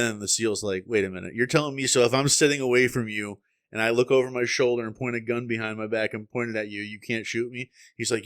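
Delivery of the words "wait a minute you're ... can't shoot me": incredulous challenge. Retold or imitated. Acted seal challenging the liberal.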